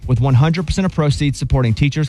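upbeat radio sponsor read over music; host slipping into a bright ad read. Acted. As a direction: sell it like a live radio ad.

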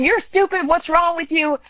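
high, mock-angry parent yelling; imitating a screaming parent. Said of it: "You don't have to scream".

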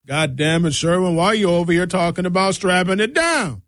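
a lightly voiced, scolding Mister Jones; irritated old boss. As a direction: grumble at him like the station boss. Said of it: "That's how Mister Jones used to sound".

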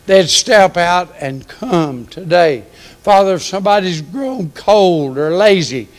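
earnest preacher's prayer; closing prayer. Acted. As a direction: lift the church up to God.

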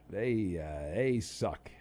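low slow defeated verdict on the team; glum mutter. Real, not acted.

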